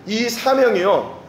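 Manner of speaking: slow weighty stress; slow emphasis. Real, not acted. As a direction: lean on 이 사명이요 slowly. Preacher slows for emphasis.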